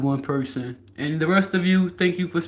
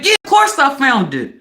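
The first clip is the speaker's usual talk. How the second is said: retold scream; 5 semitones higher than usual. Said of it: "you screaming".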